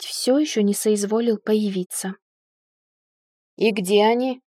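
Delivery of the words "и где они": demanding near growl, timbre darkened; irritated man's mild roar. A narrator's reading. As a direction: growl the question out, mildly. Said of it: "раздался практически рык из коридора".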